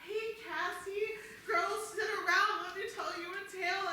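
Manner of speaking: storyteller troop mom. Pretend. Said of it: "and I'm gonna be like".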